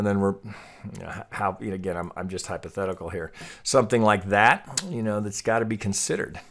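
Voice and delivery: normal talking voice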